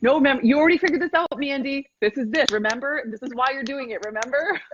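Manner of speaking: a hint of a strict coach talking to herself; stern self-talk. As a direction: call yourself out, mock-stern. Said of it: "so I can call my ass to more".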